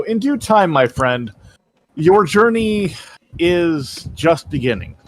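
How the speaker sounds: slow, lightly voiced wise mentor; mild solemn mentor. Mentor promising Silver a long journey, slowly. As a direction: draw it out like a sage.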